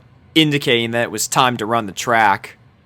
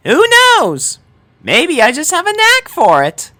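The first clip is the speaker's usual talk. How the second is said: put-on sweet concerned girl; 6 dB louder than usual. A narrator's reading. Sanada checks on the injured Dash in a very high voice. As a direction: fuss over her gently, way up high.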